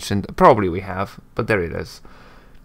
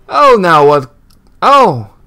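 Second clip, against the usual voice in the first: surprised; 7 semitones higher, 10 dB louder, slower than usual. Acted. First reading of the line, faltering.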